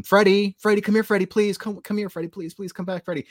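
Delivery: high, loud pleading calls, fading at the end; calling out for a cat. Retold or imitated. Neighbour girl calling her lost cat at night, high loud pleading. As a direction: call the cat's name across the yard, begging.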